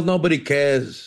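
unhurried, low film imitation; Bronx Tale quote. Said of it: "remember Bronx Tale?".

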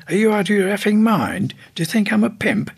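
high, incredulous retort; indignant outburst. Retold or imitated. Retold outraged reply to request.

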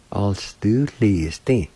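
"All s do please D" run together, still slow; slow whole-word model of "All s do please D"; joined-up pronunciation demo. Shown as a demonstration. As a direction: blend "All s do please D" carefully into one word. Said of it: "like this".

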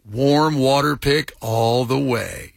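slow, low and creepy. Shown as a demonstration. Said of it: "She wants me to read it in a low, creepy voice".

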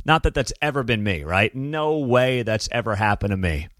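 sarcastic mock denial. Real, not acted. Host jokes about being passed over for another dude, sarcastic. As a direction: deny it with heavy, knowing sarcasm. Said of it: "Very sarcastically".

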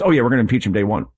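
quick, dismissive mock quote. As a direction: rattle it off like a silly excuse. Mocking opponents' impeachment talk.

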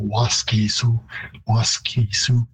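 Waskesiu with a full long middle vowel, wask-ee-sioux; Waskesiu, stress on the first syllable with no vowel reduced; Cree vowel length. Shown as a demonstration. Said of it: "it would be a longer vowel in Cree".

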